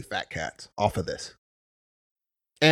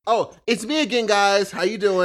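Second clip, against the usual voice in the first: upbeat vlogger greeting; YouTuber voice; 4 semitones higher, 3 dB louder than usual. Pretend. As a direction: greet your viewers cheerfully. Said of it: "people start videos on YouTube".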